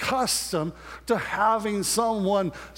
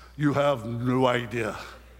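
very grave, profound voice, spoken slower; 9 semitones lower than usual. Retelling a man's answer about a culture shift after moving, very profound voice. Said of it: "in this very profound voice".

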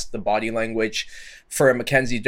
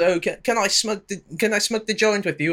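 very high-pitched put-on British accent; 10 semitones higher than usual. Imitating Ian Garry asking to share a joint: Ian Garry impression in British accent. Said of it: "I know he's not British, but I can't do the Irish accent".

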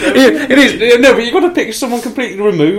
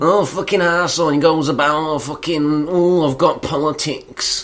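put-on Yorkshire accent; 7 semitones lower, 6 dB quieter than usual. Giving another guessing-game clue in character: put-on Yorkshire accent. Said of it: "I felt like I'd thrown them off with a Yorkshire accent".

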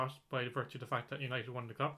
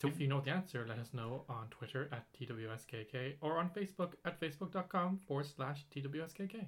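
soft, hushed, gentle robotic voice; 6 dB quieter than usual. The speaker asks listeners to reply on Twitter or Facebook, in a soft robotic voice. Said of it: "you sound very like a soft robotic voice there".

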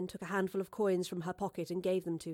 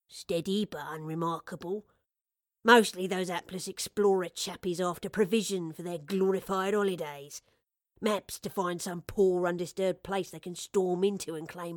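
plain reading voice

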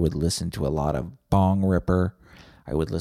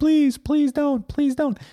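very high, tearful, crying begging; 4 dB louder than usual. Joking about a listener begging at gunpoint, imitating someone crying and pleading. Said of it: "now you're crying".

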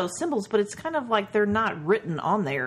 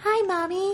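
put-on very high, tiny, creepy, eerie kid voice; 12 semitones higher than usual. Imitating the creepy little girl from the show: Diana's creepy kid voice. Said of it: "a very creepy kid".

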